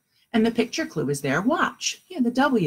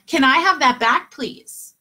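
raised, polite ask with a hushed "please"; polite repeat request; 7 semitones higher, 5 dB louder than usual. Shown as a demonstration. Child asking a brother for a toy back, politely insistent. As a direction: ask nicely but clearly, softening at the end. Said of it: "you ask them again".

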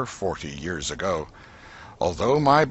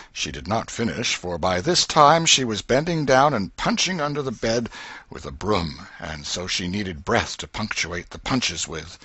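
ordinary delivery

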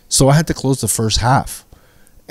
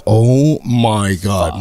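dread; 2 semitones lower, much slower than usual. Acted. Dread on facing the violent man.

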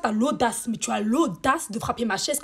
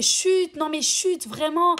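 mock crowd shushing, raised pitch; imitating annoyed audience; 4 semitones higher, much slower than usual. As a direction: hush them in exasperation. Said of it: "les gens commencent à crier".

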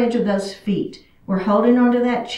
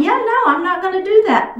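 reluctant student; 8 semitones higher than usual. Acted.

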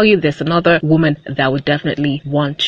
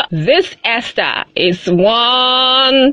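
mock disbelief; 4 semitones higher, much slower than usual. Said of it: "I'm like".

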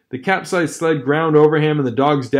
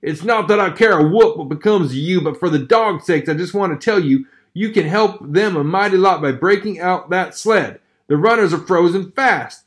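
louder, higher gruff miner voice; onlooker advising; 4 semitones higher, 4 dB louder than usual. Acted. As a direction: hold back hot words, give advice. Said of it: "now spoke up".

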